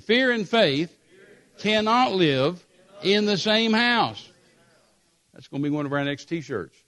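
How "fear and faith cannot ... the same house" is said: louder, slower, with conviction; a firm congregational declaration; said like you mean it. Shown as a demonstration. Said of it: "say it like you mean it".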